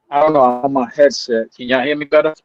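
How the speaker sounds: choppy breaking-up call audio; underwater. Real, not acted. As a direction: voice cutting in and out on the line. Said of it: "Sound like you're underwater".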